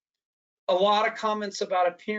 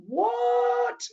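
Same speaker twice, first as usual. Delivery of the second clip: much higher, incredulous squeal; stunned what; 3 dB louder than usual. Retold or imitated. Reacting to a dentist's remark, incredulous high what. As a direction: let disbelief shoot the pitch up.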